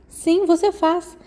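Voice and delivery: slow, calm and gently teasing; calmly. A narrator's reading. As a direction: say it calmly, slowly, with a little smile. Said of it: "Lily disse calmamente".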